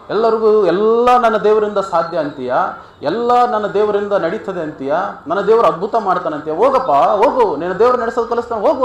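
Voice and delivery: acted jeer with loud, high punches; mocking taunt. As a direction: scoff as the officer sending him off. Officers taunting soldier's faith in story.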